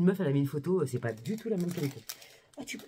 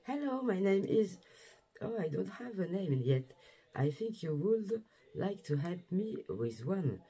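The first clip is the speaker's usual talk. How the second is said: slow, sweet toy voice reading its tag; a lightly voiced cuddly bear, unhurried; teddy bear voice; 3 semitones higher, slower than usual. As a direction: give the little bear a slow, gentle voice. Voicing the bear's message.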